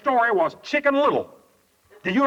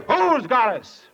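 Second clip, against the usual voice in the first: higher, slow challenging question; mock incredulity; 4 semitones higher, 3 dB louder, slower than usual. Preacher challenges the droopy woman, slow mock incredulity. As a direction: stretch it out in disbelief.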